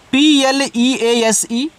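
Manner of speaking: slow, careful spelling of पी एल ई ए एस ई; letters spelled out one by one, slowly. Shown as a demonstration. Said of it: "spelling out letters slowly".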